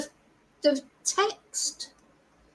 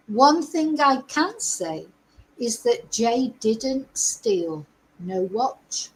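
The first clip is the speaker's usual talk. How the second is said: slow, deliberate emphasis on "didn't steal no watch"; quoted with emphasis; slower than usual. Retold or imitated. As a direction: read the quote slowly, weighting each word of "didn't steal no watch". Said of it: "he says with emphasis".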